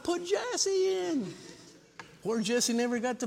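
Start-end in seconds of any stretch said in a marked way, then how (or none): 0.0-1.3 very high, stretched-out call; mock mom's long sideline holler; imitated yell. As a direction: wail it from the bleachers, slowly. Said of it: "Yell loud".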